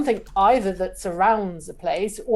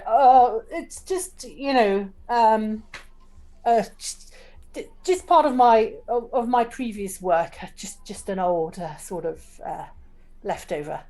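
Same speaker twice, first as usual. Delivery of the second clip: sheepish; 2 semitones higher than usual. Acted. Cleegee explains away the ornate clipboard, sheepish. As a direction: stammer bashfully and trail away. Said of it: "looks a little bit sheepish".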